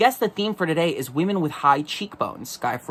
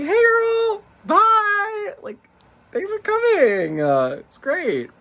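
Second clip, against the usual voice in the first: much higher, breezy diva voice; camp sassy voice; slower than usual. Pretend. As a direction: chirp it like a campy queen. Camp dismissive greeting to Kate.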